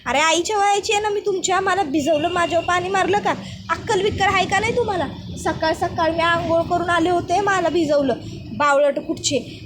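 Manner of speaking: put-on sharp scolding of the kids; scolding woman. Angry woman scolding kids who splashed her. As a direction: tell off the kids who soaked you.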